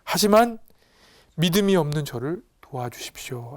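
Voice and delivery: lightly acted desperate plea; earnest cry. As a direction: plead with a burst on the middle word. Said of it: "하고 외치는 거예요. 정말 간절하죠". (간절하게 외치듯)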